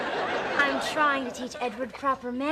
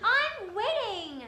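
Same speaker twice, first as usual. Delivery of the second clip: impatient; 10 semitones higher, slower than usual. Acted. Girlfriend summoning boyfriend.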